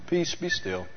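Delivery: softly, with no need to shout; calm quiet command. Retold or imitated. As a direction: hold the hands up and quietly still the storm. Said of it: "looked around and goes".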